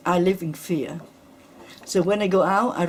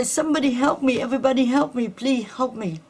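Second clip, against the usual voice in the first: calling for help; 5 semitones higher than usual. Retold or imitated. Acid victim retells begging bystanders for help, higher, fading. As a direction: cry out for help, then let it sink. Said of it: "I say".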